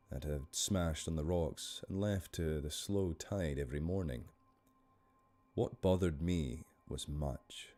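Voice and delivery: measured Scottish story narration; Scottish storyteller, unhurried; Scottish accent. Shown as a demonstration. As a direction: read the tale in a Scottish accent. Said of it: "I'm gonna do this one in a Scottish accent".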